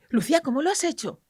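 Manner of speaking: hushed, amazed whisper; whispered question. Retold or imitated. Mother whispering to the doctor, amazed. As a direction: whisper it in wonder. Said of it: "Y dice".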